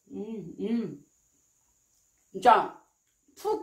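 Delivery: slurping food while talking; mumbling through a mouthful; chewing with mouth full. Real, not acted. Seen 0: Slurps strands from bowl, strands hang from lips, chews with full cheeks.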